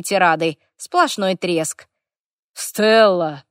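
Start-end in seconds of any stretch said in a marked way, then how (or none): 2.5-3.4 sharp reprimand by name, mildly raised; dragon's bark. A narrator's reading. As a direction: call her sternly to order. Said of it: "рявкнул дракон". (окрик дракона)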